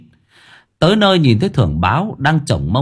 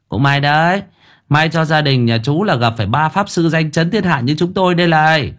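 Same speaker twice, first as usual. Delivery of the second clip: higher, boastful swagger; swaggering con man; 5 semitones higher than usual. Acted. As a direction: brag like a sham exorcist. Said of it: "khệnh khạng ... nhẹt cái mồm ra". (giọng khệnh khạng khoác lác)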